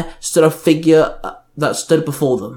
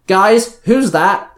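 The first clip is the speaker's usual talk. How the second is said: raised, loud questioning call; 6 semitones higher, 4 dB louder, much slower than usual. A narrator's reading. Ruthie pointing out something in the sky, calling out. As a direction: call everyone's attention upward. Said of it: "she called out".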